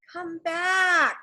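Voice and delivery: high pleading call; cried out. A narrator's reading. Jack calling after the driver, high cry. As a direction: call after the leaving wagon. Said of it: "Jack cried".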